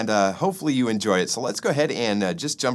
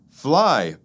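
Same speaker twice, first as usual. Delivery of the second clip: begging; 4 semitones higher, 4 dB louder than usual. Acted. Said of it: "begged Ed Flea".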